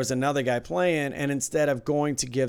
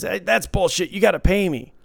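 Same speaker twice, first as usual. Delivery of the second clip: higher, louder mock outrage; indignant protest; 6 semitones higher, 6 dB louder than usual. Dealer acting out a player refusing the call, indignant. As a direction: imitate a player demanding his money.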